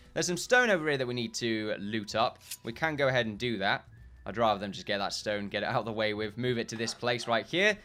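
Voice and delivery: normal talking voice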